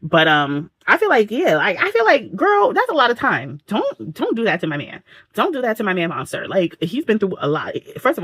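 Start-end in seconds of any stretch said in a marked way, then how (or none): 0.9-6.5 protective outburst. Real, not acted. Defending Monster to character.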